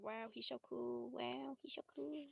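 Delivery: airy, lightly mocking swoon; dreamy gushing quote. Maria gushing over Benjamin, mock swoon. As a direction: swoon over the boy, half-joking.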